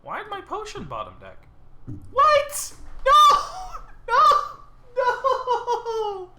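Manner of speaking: shrieking high-pitched disbelief at the deck; real squealing outrage, cracking into laughter; outraged disbelief. Real, not acted. Gamer yelping at a bad card draw, shrill outraged shout.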